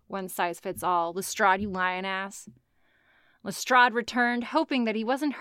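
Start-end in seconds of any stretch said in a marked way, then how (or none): 0.1-2.5 low, soft and sarcastic; sarcastic mutter. Real, not acted. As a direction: mutter it with disdain.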